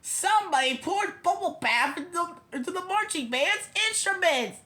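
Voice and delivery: lightly acted outcry; fan calling out. A narrator's reading. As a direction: announce the prank from the stands. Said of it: "shouted a fan in the bleachers".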